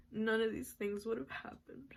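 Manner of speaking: whispered through tears; teary and whispered; tearful whisper. Real, not acted. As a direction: let it fall to a teary whisper. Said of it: "no, I cried".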